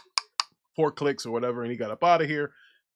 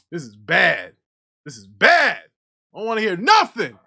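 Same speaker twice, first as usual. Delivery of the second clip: mock despair; 8 dB louder than usual. Real, not acted. Despair over team loss.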